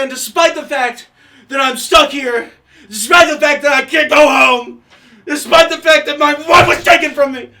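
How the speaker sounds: building shout. Acted. Stranded man vents his losses.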